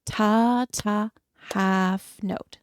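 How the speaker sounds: clapping along, counted aloud; rhythmic counting. Shown as a demonstration. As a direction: count it in time. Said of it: "we'll do it together".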